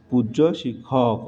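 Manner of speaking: পূজ্য ending in a rounded o; corrected form demo. Shown as a demonstration. Teacher confirms the corrected phrase for students, পূজ্য ending in o. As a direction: repeat পূজ্য with o as its last vowel. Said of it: "উচ্চারণ হবে কি?".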